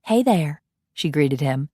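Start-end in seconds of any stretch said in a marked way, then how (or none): 0.0-0.6 light Southern belle greeting, a touch higher; a hint of an old Southern belle saying hello. Coralie greeting Ian, lightly voiced Southern belle. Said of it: "she still sounded like a Southern belle".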